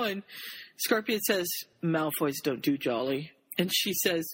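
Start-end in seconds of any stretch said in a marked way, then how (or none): 1.8-3.3 low, Batman-like delivery; deadpan serious. Acted. Scorpius answering Rose's question, deadpan serious. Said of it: "just the way you said it".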